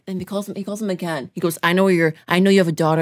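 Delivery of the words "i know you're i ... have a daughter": loud retold threat; re-enacted intimidation; threatening caller. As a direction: imitate a menacing phone caller, voice raised.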